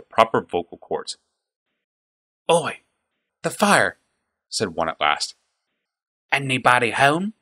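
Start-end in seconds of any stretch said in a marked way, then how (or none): 2.5-4.0 rough goblin calling out; a coarse goblin shouting from the dark; guttural goblin voice. A narrator's reading. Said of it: "rough and guttural". 6.3-7.3 rough goblin taunt; a coarse goblin jeering uphill; guttural goblin voice. A narrator's reading. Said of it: "rough and guttural".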